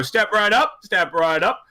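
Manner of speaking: carnival barker. Acted. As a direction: bark it like a fairground hawker. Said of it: "they turn to you and go".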